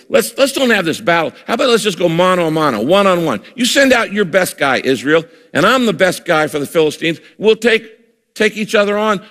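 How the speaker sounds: a hint of a swaggering giant daring the army; giant's taunting challenge. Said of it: "He says".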